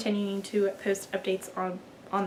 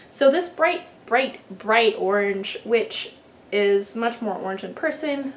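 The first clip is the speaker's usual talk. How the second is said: ordinary delivery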